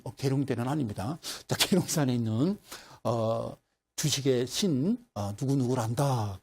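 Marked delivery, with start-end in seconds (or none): 1.6-6.4 slow, lightly voiced old deity; mock-grand mountain god; old mountain spirit. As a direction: introduce yourself as a solemn sage, unhurried. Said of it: "할아버지 한 분이 쓱 나타나는".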